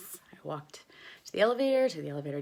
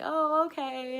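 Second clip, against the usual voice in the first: higher, relieved reply; relieved oh okay; 11 semitones higher, slower than usual. Retold or imitated. Costar explains, she answers relieved. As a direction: let the relief show. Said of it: "I was like".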